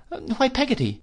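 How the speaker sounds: put-on high, plaintive child's voice; rueful. A narrator's reading. Young boy to his nurse Peggotty, rueful. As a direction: ask it ruefully, pitched well up. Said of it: "said I ruefully".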